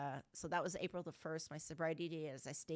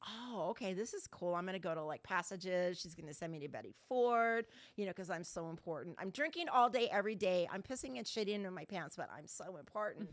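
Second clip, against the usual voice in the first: retold smug inner monologue, swelling louder midway; mock self-importance; 4 dB louder than usual. Drinker imagining a fancy rehab, mockingly self-important. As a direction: send up your own grand expectations.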